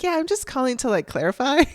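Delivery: very high, tentative imitation; timid caller. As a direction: mimic an unsure caller, rising at the end. Imitating unsure caller ringing back.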